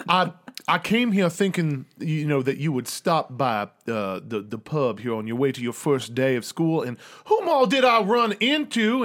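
lightly voiced old Southern gentleman, chatty; a hint of old-colonel father; old father figure. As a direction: ramble genially as a colonel, rising on the closing question. Plays Jiro greeting his son.

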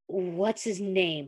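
low, slow and rough through clenched teeth; low rough demand. Acted. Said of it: "voice low but rough through his clenched teeth".

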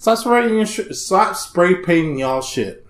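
high, exasperated pleading to stop; mock scolding. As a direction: scold them like a fed-up neighbor. Retold scolding of car owners.

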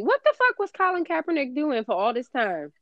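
fed-up and heated; angry. Real, not acted. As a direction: throw the question back, indignant. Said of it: "what makes me so angry is".

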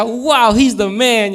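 starry-eyed praise; excited admiration. Retold or imitated. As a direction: gush over the new stepfather. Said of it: "Yo decía".

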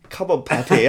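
lightly imitated Hispanic New York accent; a hint of a sexy New Yorker's Hispanic accent; flirty line in a lightly mimicked Hispanic New York accent. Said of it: "in his, like, accent, it was sexy".

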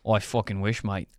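put-on joking, muddled Australian accent; Irish-Australian accent. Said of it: "mix between Irish and Australian".

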